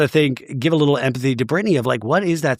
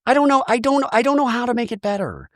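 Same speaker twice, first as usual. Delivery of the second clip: high-pitched imitation of someone welling up; retold on the verge of tears; mock tearful; 12 semitones higher, faster than usual. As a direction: imitate a helpless, tearful mother in a much higher voice. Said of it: "And she starts tearing up".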